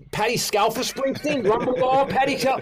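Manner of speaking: high-pitched, incredulous fan outburst; starstruck disbelief. Retold or imitated. Fan hearing a star's wife on the phone, starstruck disbelief. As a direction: blurt it out, voice leaping up. Retelling his starstruck reaction to a call.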